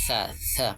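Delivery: সা as a soft "th", tongue between the teeth; tongue-out articulation. Shown as a demonstration. Teacher demonstrating an Arabic letter, সা lisped with tongue out. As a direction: put the tongue out for the th in সা. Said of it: "জিহ্বা বের করবেন".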